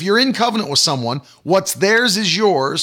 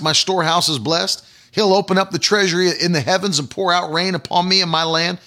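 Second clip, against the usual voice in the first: confident confession. Shown as a demonstration. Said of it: "stop saying that and say".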